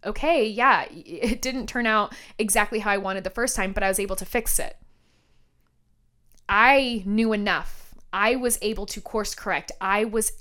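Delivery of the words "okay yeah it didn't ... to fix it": kind self-talk. Retold or imitated. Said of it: "as opposed to".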